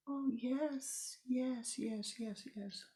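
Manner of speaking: nod it off into a whisper; eager confirming. Acted. Mother confirms, fading.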